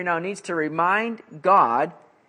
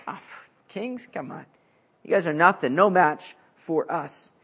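put-on scoffing Babylonians. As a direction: brush the kings off with a pff. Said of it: "Babylonians just scoff at them".

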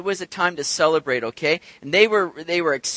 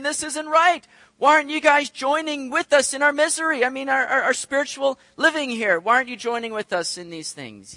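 whiny Pharisees; 5 semitones higher than usual. Acted. Complaining Pharisees voiced.

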